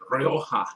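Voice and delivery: Rioja with a rolled Spanish r and a throaty j; Spanish-style Rioja. Shown as a demonstration. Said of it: "I like saying that".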